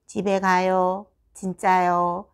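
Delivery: monotone mimicked pupil; toneless, robotic echo; machine-like reply. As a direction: imitate a child answering like a machine. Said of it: "정말 기계처럼 얘기를 하죠".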